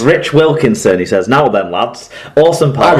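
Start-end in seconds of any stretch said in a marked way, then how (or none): 1.3-3.0 lightly put-on Yorkshire accent; playful touch of Yorkshire accent. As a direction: read it with a hint of Yorkshire. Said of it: "is that your Yorkshire accent".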